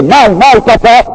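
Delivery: put-on high-pitched pleading cry of a little girl; acted-out cry of a beaten child; imitating a child's cry. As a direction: voice leaps up, as a child crying out to papa. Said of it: "la gamine qui criait".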